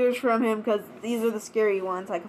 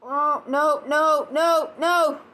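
panicked no; 4 semitones higher, much slower than usual. Real, not acted. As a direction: stop it, quick. Clicked the wrong video.

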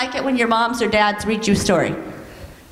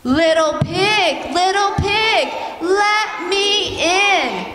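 slow wolf call climbing higher; wolf at the door; 4 semitones higher, much slower than usual. Acted. Wolf calling to the pig at the door, slow and rising. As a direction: coax the pig like a sly wolf. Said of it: "he says".

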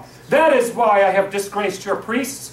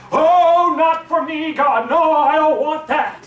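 whiny drama queen; 4 semitones higher than usual. Retold or imitated. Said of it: "we go like".

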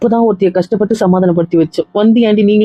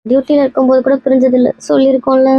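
raised-pitch, upset insistence; tearful; 4 semitones higher than usual. Acted. Friend justifying tears over separate classrooms, tearful. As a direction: protest the parting tearfully. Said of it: "ஏன்டி இப்படி மூணு பேர் அழுதுட்டு".

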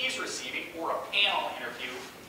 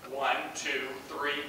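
lower, stiff counting; same interview voice; 5 semitones lower, slower than usual. Retold or imitated. Candidate counting to ten for the interviewer, in stiff interview voice. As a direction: count evenly in a low business voice. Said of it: "using that same voice that you started".

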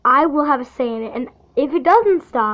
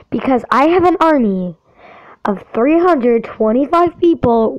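louder, heated scolding of a bully; fired up; 3 dB louder than usual. Real, not acted. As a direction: lay down the law, getting angrier. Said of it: "I'm getting a bit too fired up".

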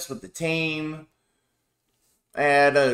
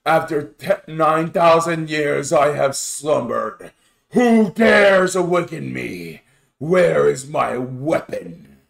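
slow, grand awakened warrior voice; Vegeta impression; 2 semitones lower, slower than usual. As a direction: intone it like an ancient warrior waking. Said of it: "that was a Dragon Ball Z abridged quote from Vegeta".

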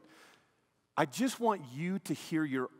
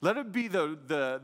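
ordinary talk

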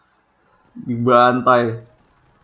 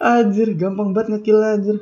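laughing; 7 semitones higher than usual. Real, not acted. Laughing after easy kills.

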